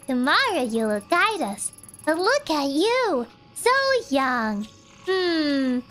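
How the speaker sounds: calm and eerie, like a cult elder; creepy calm cultist. Acted. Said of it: "you do this cultist voice is too good".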